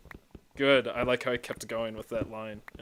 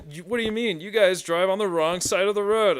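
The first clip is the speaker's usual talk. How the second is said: high, loud mimicked comeback; mock indignation; 8 semitones higher, 5 dB louder than usual. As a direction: imitate an affronted retort.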